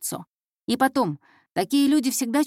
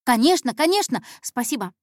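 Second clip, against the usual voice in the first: put-on higher, hasty, flustered girl; eager agreement; 4 semitones higher, 4 dB louder than usual. Scolded intern thanking the detective, hastily eager. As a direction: agree at once, anxious to please.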